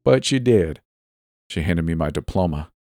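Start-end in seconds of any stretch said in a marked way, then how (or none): 0.0-0.8 high-voiced disapproving school principal; indignant public telling-off, pitched up; scornful principal, scolding. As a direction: lecture the pupils from on high. Acted principal scolds pupil.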